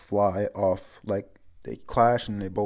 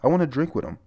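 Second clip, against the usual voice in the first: cheery Roger call; 8 semitones higher, 4 dB louder than usual. Retold or imitated. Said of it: "Roger, he says".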